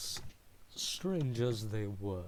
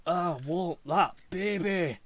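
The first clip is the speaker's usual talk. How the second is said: laughing plea; 7 semitones higher, 8 dB louder than usual. Acted.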